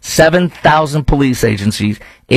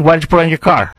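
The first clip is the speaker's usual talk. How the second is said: put-on Chicago accent; 4 semitones higher, faster than usual. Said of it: "my Chicago accent in there".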